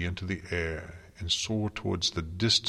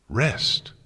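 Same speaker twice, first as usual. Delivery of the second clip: sharp, higher, louder offended question; venomous hiss; 5 semitones higher, 5 dB louder than usual. A narrator's reading. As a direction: spit the word out like poison. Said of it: "hissed the words as if it were poison".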